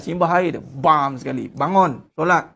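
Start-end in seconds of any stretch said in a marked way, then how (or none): 1.5-2.5 short, firm, no-nonsense commands; just bark the two words; curt order. Shown as a demonstration. Preacher showing the direct way, in a curt order. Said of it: "Itu je ayat dia".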